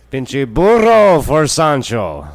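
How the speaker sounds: loud, high, drawn-out mock battle cry; big stretched-out joke shout; hammed-up Mexican holler. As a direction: holler it long and high, for comic effect. Jokes about his Mexican blood awakening.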